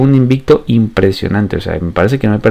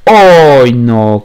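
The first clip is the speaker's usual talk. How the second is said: loud; 5 dB louder than usual. Real, not acted. Near miss on a shot.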